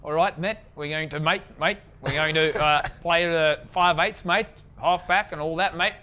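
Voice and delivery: lightly imitating a New Zealand accent, leaning on every mate; a playful hint of Kiwi accent, mate after each phrase; host teasingly mimics the guest's Kiwi accent. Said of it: "dig the Kiwi accent there".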